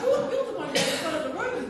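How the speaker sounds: put-on high, loud child's discovery; little girl voice. Little girl recognising the commissioner, high excited child voice. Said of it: "She goes".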